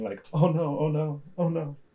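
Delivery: imitated quivering voice. Describing the kid who ducked, heard from the shed: imitating a quivering voice. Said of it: "and you just hear like quivering".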